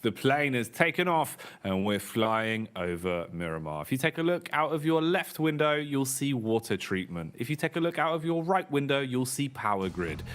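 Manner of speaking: airline cabin announcement voice; flight attendant announcement. Pretend. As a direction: do the in-flight safety spiel. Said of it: "Now I'll pass you over to your captain".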